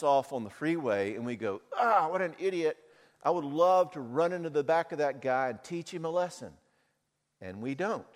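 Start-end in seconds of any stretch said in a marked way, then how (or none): 1.7-6.6 mock angry driver, higher-pitched; road rage. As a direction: fume at the guy who cut you off. A driver cut off on the freeway.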